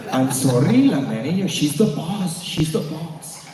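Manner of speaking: imitated cousin's teasing apology; hammed-up mock apology; mocking deference.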